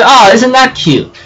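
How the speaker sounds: high cooing "Oh, isn't that cute?". Retold or imitated. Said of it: "I just go".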